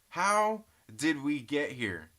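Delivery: "How did we get here?" said slowly, every word stretched; drawn-out question. Shown as a demonstration.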